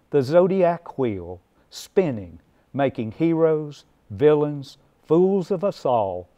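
measured poem recital with deliberate phrase breaks; declaimed verse, lines falling at the close; poetry reading. Acted. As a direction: read your poem aloud to an audience, weighing each phrase. Reads own poem aloud.

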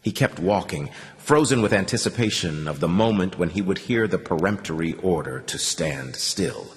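plain reading voice

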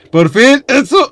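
loud, high cheer of relief; exclamación triunfal. Real, not acted. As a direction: burst out high, finally getting it. Finally gets what he wanted. (grito de triunfo, agudo)

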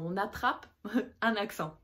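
repeats the phrase with a laugh mid-line. Shown as a demonstration. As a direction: laugh through the repeat of the point.

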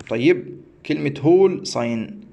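هول said slowly as "hole", round long o; slow teaching voice for هول ساين; careful pronunciation. Shown as a demonstration. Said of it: "كلمه الهول دي انا كنت بنطقها غلط".

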